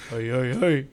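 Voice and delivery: half-hearted Australian echo; mock Australian accent. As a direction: try out a rounded Australian "hey". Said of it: "That's Australian".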